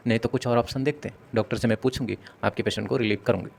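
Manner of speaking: calm, gentle explanation; a hint of caring nurse calming family; polite reassuring. Shown as a demonstration. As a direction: soothe the worried relative patiently. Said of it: "आपको इस तरीके से बोलना चाहिए".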